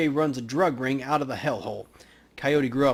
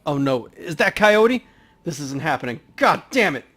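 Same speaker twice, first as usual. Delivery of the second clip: panicked alarm; 3 semitones higher, 8 dB louder than usual. Acted. Paco sees a dead woman.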